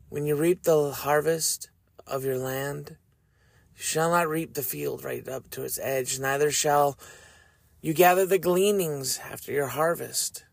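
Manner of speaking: measured, solemn reading of Leviticus; scripture reading. Shown as a demonstration. Reading verses to his audience, solemn scripture voice. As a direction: read each commandment with weight.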